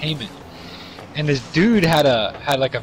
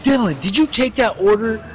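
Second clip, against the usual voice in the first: mock yell at a coworker far away; retold yell from down the hall; 8 semitones higher than usual. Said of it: "fucking yells at me from down the hall".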